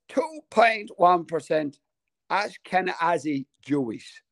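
slow, drawn-out announcement; deliberate, suspenseful reading of a result; dramatic reveal. Real, not acted. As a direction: spell out the result slowly.

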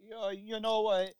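put-on very high excited Jersey accent, loud; hammed-up Jersey guy shouting at the sky; high yelling Jersey accent, slowing on the last line; mock Jersey accent. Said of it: "like, Jersey accents".

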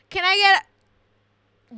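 drawn-out high loud mock order; mock customer. Worker mocking a customer ordering at drive-thru, drawn out. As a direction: stretch it out like a clueless customer. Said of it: "mock customer order".

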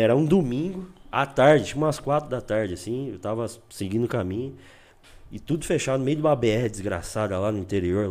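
usual speaking voice

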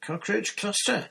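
high-pitched amazed exclamation; a boy's stunned, delighted surprise. A narrator's reading. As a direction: blurt it out in pure astonishment. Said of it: "he said, amazed".

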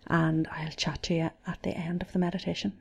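right in your ear. Real, not acted. Aside before the meditation starts.

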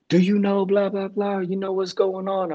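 a hint of a hounding press voice; pushy reporters. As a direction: mimic the cameras firing questions. Reporters rushing him with questions.

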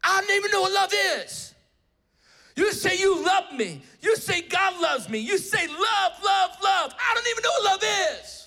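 the student explodes, yelling it back; retold furious outburst. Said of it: "He explodes at me".

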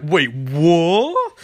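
stunned double-take with a long rising what; drawn-out, incredulous question; mock disbelief. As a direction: imitate someone baffled, stretching the last word upward. Voices Caitlin's shocked reaction.

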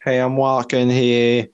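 put-on half-successful New York accent; attempted New York accent. Co-host copying the voice actor, shaky attempt at New York accent. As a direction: imitate a New Yorker, not quite landing it. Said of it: "the accent is gone now".

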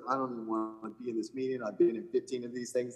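Adam Scott slumped at a team dinner, mumbling quietly; mock hungover mumble. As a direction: mumble it like you're too hungover to care.

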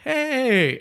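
high, loud cartoon "Hey!"; mock shout. Robber yelling at the police officer, high mock shout. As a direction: yell it like a caught cartoon robber. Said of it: "the robber turns around to the police officer and they're like".

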